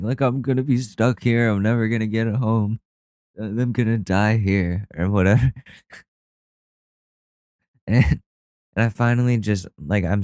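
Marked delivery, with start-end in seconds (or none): 0.2-4.9 mock despair. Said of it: "I thought my world was ending".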